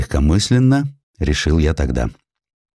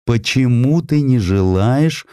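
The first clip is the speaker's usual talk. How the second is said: a hint of a slow, reproaching mother; reproachful mother; 4 semitones higher, slower than usual. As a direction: gently scold the son, drawn out. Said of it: "упрекала она сына".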